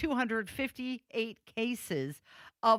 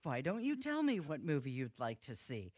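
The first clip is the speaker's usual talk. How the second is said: lower, softer Kramer imitation; Kramer impression; 5 semitones lower, 4 dB quieter than usual. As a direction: do Kramer doing Moviefone. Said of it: "Kramer from Seinfeld".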